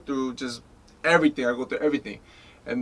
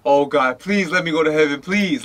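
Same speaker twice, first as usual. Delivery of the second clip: retold desperate plea; 5 dB louder than usual. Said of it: "I was crying like crazy".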